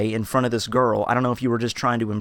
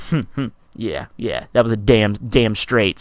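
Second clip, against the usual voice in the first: smug smirk; 2 semitones lower than usual. Shown as a demonstration. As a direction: imitate a vindicated customer's smirk. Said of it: "sort of smirk he gave me".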